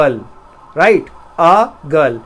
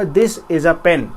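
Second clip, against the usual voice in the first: slow example; much slower than usual. Shown as a demonstration. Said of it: "तो मैं बोलूँगा".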